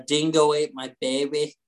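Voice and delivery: mock Australian accent; half-sure attempt at an Australian accent. Shown as a demonstration. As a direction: put on an Australian accent for a classic quote. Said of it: "I like Australian accents a lot".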